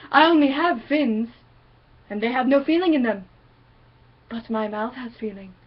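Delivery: a chill shark murmuring to itself; calm, real shark. Retold or imitated. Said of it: "This is how a shark do".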